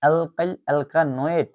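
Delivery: "অ্যালকাইল অ্যালকানয়েড" slow and measured; careful pronunciation demo. Shown as a demonstration. Teacher repeating the ester's name for students, slow and careful. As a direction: say "অ্যালকাইল অ্যালকানয়েড" slowly as one joined name. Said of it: "এটার উচ্চারণ হচ্ছে".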